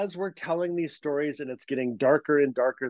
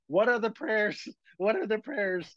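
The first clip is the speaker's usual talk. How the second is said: put-on frantic kids; 6 semitones higher than usual. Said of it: "And we're like".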